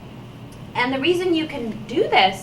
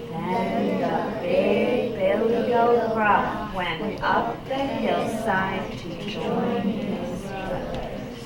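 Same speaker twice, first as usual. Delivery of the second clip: slow, measured storybook narration; story read-aloud; 3 semitones lower, much slower than usual. A narrator's reading. Teacher reads the last page to children, slow storytelling. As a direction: wind the tale down slowly.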